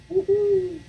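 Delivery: high excited woohoo; cheer. Real, not acted. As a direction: let out a happy cheer. Cheering before fall break.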